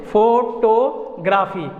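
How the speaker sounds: "फोटोग्राफी" slowly as fo-to-graa-fee; slow "फोटोग्राफी" with a full "fo"; mispronunciation demo. Shown as a demonstration. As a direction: draw out both o sounds in "फोटोग्राफी". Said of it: "इस तरह के जो हम लोग बोलते हैं".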